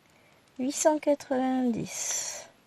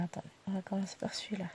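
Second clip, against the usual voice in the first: whispered aside; 3 semitones lower, 8 dB quieter, much faster than usual. Real, not acted. Muttering to herself while sorting.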